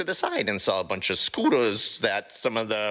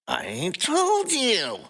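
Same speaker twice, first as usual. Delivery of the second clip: irritated; 13 semitones higher, much slower than usual. Acted. Rocket annoyed, third time explaining.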